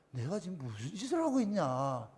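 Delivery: very soft, low mutter to oneself; hushed self-questioning. Acted. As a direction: drop right down as if suddenly realising. Acted inner voice after being rebuked. (아주 낮고 작게 혼잣말하듯)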